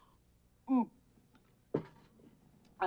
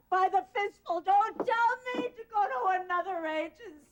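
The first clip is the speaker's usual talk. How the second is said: higher, climbing toward panic; rising hysteria; 6 semitones higher than usual. Acted. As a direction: plead as if losing her mind. Distraught widow pleading hysterically.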